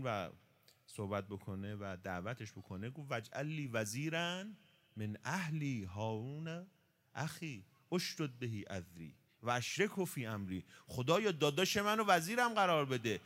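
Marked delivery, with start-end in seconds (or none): 3.1-10.6 slow chanted Arabic verse recitation; Quran recitation. Acted. Preacher reciting Moses' prayer to his listeners, chanted. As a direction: intone the verse slowly and reverently.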